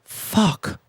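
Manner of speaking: breathy whispered swear; whispered curse. Retold or imitated. After escaping the neighbour, whispered curse. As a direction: let it out under your breath.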